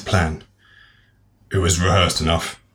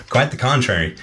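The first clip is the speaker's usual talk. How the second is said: higher-pitched southern belle voice; southern accent; 6 semitones higher than usual. Acted. Alicia reports seeing Magnus, in a southern accent. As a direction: tell it in a put-on southern US accent. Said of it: "she did have a southern accent".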